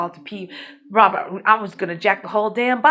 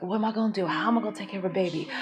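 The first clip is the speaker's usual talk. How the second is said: worried inner thought; 3 semitones lower, 8 dB quieter, much faster than usual. Retold or imitated.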